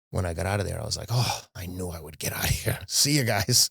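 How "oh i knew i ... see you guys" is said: whispered sigh of relief, then a cheeky goodbye; retold breathy relief; relieved aside. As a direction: let it out under your breath like an escape. Imagined relieved exit on leaving home.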